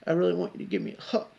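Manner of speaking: hammed-up begging, rushed; mock pleading. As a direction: mimic a needy request. Imitates her pleading for a hug.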